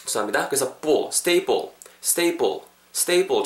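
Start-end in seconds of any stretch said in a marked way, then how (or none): 1.1-3.4 스테이플 with ㅃ in place of 프; tense P sound. Shown as a demonstration. Teacher repeats 스테이플 for learners with a tense ㅃ sound. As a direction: model 스테이플 crisply as 스테이뻘. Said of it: "정도로 발음하시면은".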